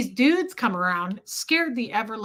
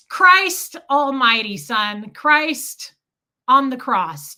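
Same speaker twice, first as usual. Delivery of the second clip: exasperated outburst; 7 dB louder, much slower than usual. Retold or imitated. Exasperated at kid forgetting cash.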